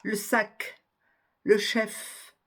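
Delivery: sac with a crisp C, chef with a clear F; careful teacher's sac and chef, endings sounded; sounded final consonants. Shown as a demonstration. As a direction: finish sac and chef fully on their consonants. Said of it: "prononcez bien cette, euh, consonne finale".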